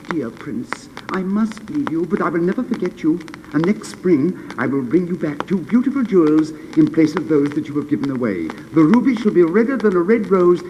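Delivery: high, bright-voiced bird speaking; swallow, eager little bird. Swallow explaining why it must fly to Egypt, high. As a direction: chirp it out eagerly.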